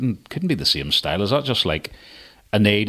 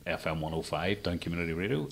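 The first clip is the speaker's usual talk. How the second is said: radio presenter voice; 3 semitones lower, 10 dB quieter than usual. Shown as a demonstration. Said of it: "I said that like a radio presenter".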